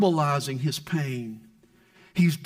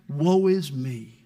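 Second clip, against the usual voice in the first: self-pity; 5 semitones lower, slower than usual. Pretend. Mocking pastors' self-pity.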